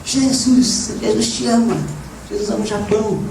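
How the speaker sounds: retold street-march shout. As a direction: call it across the street to strangers. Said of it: "eu gritava lá".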